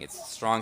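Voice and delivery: strong said with a light push; stressed word. Shown as a demonstration. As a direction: press on strong. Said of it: "strong emphasis".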